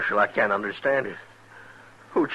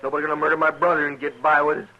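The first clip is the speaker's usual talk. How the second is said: grieving brother growing more insistent and higher; rising anger; 7 semitones higher, 3 dB louder than usual. Acted. Brother demanding the marshal catch the killer, heated. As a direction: push the marshal harder each line.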